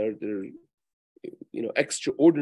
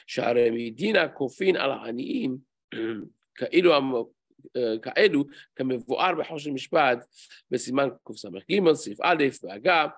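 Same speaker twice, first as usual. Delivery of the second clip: text reading; 4 dB louder, much faster than usual. Acted. Reads Hebrew source fast.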